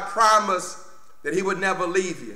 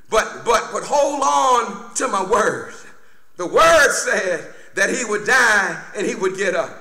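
full-force preaching; 4 semitones higher than usual. Real, not acted. Preacher warning church about forgetting God's word, emphatic preaching. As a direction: preach it out with raised pitch.

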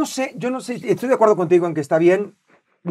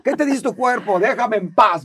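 higher, cheeky put-on voice; voice of his body; 4 semitones higher, 4 dB louder than usual. His own body telling him to quit, cheeky and higher. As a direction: let the lazy body talk back. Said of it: "me dice mi cuerpo".

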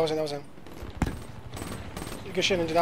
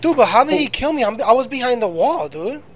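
raging gamer; 7 semitones higher than usual. Real, not acted. Killed by shotgun, raging at it.

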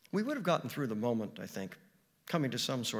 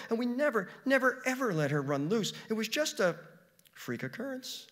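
put-on higher pleading girl's voice; 8 semitones higher than usual. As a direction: beg earnestly to save the dog. Girl pleading for her dog.

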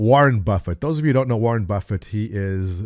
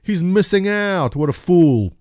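raised, scornful young trader mocking the old investor; mocking scoff; 4 semitones higher than usual. Young traders scoffing at Warren Buffett, mocking and raised. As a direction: sneer it like a cocky kid who knows better. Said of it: "us young guys used to scoff".

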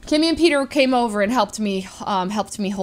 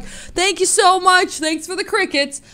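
sweet thanks; 8 semitones higher than usual. Retold or imitated. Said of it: "And I'm like".

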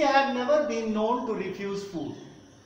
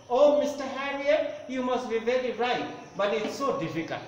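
higher, pleading doting owner; lightly voiced fretting lady; 4 semitones higher than usual. Owner begs the vet, mild plaintive pleading. Teacher voices Mrs Pumphrey.

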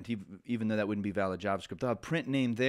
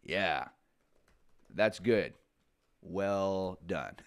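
approving French listener; 4 semitones lower, much slower than usual. Retold or imitated. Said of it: "what the French person heard was".

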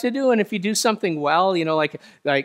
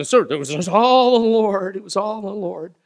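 mock humble deflection; 4 semitones higher, 6 dB louder than usual. Pastor's acted humble reply.

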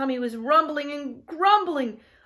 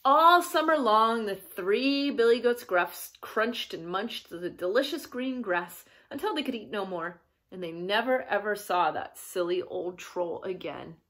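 put-on children's story narration. A narrator's reading. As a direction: read the happy ending to a child.

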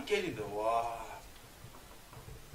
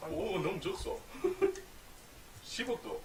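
laughing; 11 semitones higher than usual. Real, not acted. Repeating the quote while laughing.

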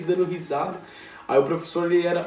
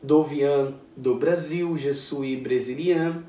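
learner's French; 3 semitones lower, slower than usual. Shown as a demonstration. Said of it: "começou a se apresentar".

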